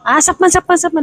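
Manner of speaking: high mock market-vendor yell of "sapman"; vendor calling out. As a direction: call out "sapman" like a stall seller. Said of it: "May sisigaw na ganon". (pasigaw na tawag ng tindero sa palengke)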